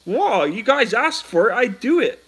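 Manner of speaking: loud, high, hammed-up Southern US accent; full Dixie accent. Shown as a demonstration. Giving chat the Southern voice they asked for, loud hammed-up Southern US accent. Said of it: "he went full Dixie".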